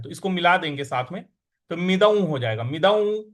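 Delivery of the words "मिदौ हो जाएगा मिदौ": मिदौ with the अनुस्वार merged into the following sound; nasal joined. Shown as a demonstration. Teacher shows how the अनुस्वार joins in मिदौ. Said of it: "इस प्रकार से बोलेंगे".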